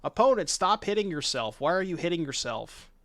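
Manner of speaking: mock big-brother taunt; mock playground taunt. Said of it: "this is like the classic".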